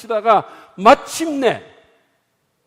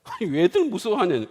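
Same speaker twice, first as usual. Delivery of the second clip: normal talking voice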